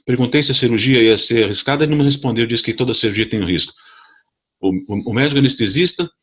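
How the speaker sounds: high, fast retold protest; indignant complaint. To the nurse, fast and indignant. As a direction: fire off the grievance in a rush. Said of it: "Falei bem assim pra ela, me achando".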